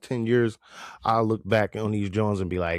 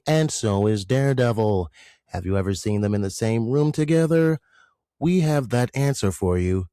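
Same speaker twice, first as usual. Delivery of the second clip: mock news anchor. Host hamming up a news promo about Matt Murdock, lightly done. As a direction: play a TV anchor teasing tonight's story.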